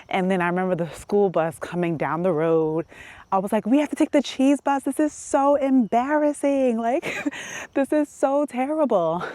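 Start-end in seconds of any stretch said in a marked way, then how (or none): 3.6-9.2 mock teen whine. Teen griping about riding the cheese bus, drawn-out mock whine. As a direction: drag it out like a mortified teenager.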